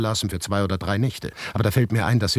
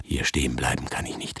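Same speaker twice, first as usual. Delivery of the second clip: inner thought; 4 semitones lower, 6 dB quieter than usual. A narrator's reading. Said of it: "wiederholte ich in Gedanken".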